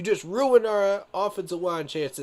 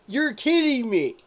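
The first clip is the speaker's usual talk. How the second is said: higher, incredulous kidding me; can't believe what he's seeing; disbelief; 8 semitones higher than usual. Real, not acted. Reacting in disbelief to pick.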